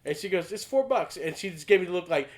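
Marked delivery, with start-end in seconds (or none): 0.5-1.2 deadpan worker. Retold or imitated. The worker repeating the price.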